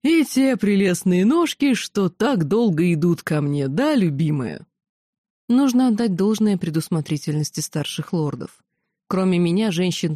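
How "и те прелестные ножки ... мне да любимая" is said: put-on slurring drunk charmer; frat bro.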